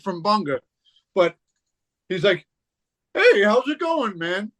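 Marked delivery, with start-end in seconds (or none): 3.1-4.5 higher, slow gentle greeting, lightly voiced; a mild take on a tough guy's surprisingly soft voice; soft-spoken Mel. Imitating Mel's soft friendly hello at the party. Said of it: "Soft spoken".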